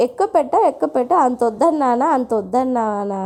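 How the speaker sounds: imitated children's clamour. Children protesting to mother over lunch portions, imitated clamour. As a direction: lightly mimic kids protesting, starting high. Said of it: "గోల తయారు చేస్తారు".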